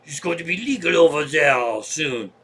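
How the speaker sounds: put-on lightly done French accent for the old hippie. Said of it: "French is easy".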